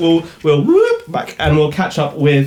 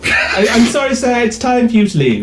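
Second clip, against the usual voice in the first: raised, firm officer's voice; firm order; 8 semitones higher than usual. Acted. Captain ordering the armed guest to leave, raised voice.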